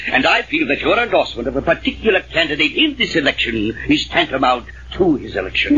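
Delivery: pompous formal address; dignified. Acted. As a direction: put on serious dignity to win his endorsement. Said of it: "now, serious and dignified".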